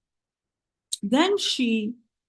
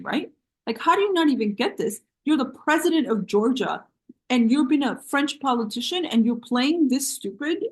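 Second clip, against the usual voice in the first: exasperated; 4 semitones higher than usual. Retold or imitated. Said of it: "I was like".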